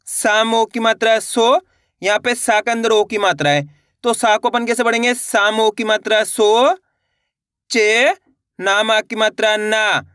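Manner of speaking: slow, syllable by syllable; slow teacher's phonics drill; slow spelling-out. Shown as a demonstration. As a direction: sound out each letter for pupils. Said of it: "ये देखना है कि मैं किस तरीके से".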